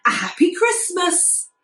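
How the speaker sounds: high, tinkling fairy doll greeting. A narrator's reading. Fairy doll greeting the kitten, high and light. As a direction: lift it up like a little fairy. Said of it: "said the fairy doll".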